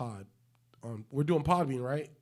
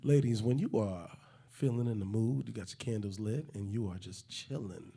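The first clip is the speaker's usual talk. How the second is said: lightly smooth, lower seductive host voice; sexy intro for the ladies; 3 semitones lower than usual. Acted. Host doing a sexy intro for the ladies, lightly seductive. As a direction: croon it low to the ladies. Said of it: "Can we do one for the ladies?".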